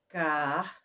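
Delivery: Car-re-ta with long pauses between syllables; split into syllables. Shown as a demonstration. Teacher shows pupils how the word divides, syllable by syllable. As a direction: break Car-re-ta in three, one R each side. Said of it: "ficaria assim".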